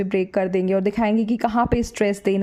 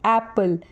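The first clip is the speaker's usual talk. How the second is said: एप्पल with its first syllable stressed. Shown as a demonstration. Teacher giving an example word, एप्पल stressed at the start. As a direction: put the weight on the opening "ap" of एप्पल. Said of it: "एपी पे ज़्यादा stress दे रहे हैं".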